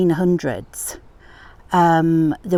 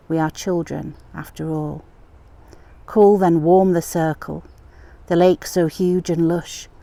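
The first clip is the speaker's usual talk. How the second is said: poem reading. Acted. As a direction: read the memory poem gently and unhurried. Reads her poem aloud.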